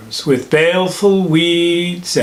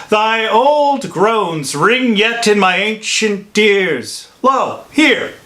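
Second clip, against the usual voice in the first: raised, incredulous scolding; chiding; 4 semitones higher than usual. Acted. Friar to fickle lover about wasted tears, chiding. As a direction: chide with mounting pitch, piling up the proof.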